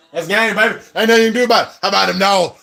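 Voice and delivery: high-pitched victory gloat; excited crowing. Real, not acted. Fan crowing as the clock runs out, excited gloat. Game ends, he crows.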